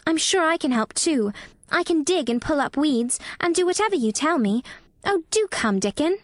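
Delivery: put-on high, pleading girl's voice; eager begging. A narrator's reading. Mary offers Dickon her help, high eager plea. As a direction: beg him keenly in a child's high voice. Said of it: "Mary begged".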